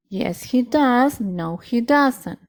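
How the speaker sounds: slow, deliberate short answers; slow model answers. Shown as a demonstration. Teacher modelling short answers slowly for students. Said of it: "Escuchen bien la pronunciación".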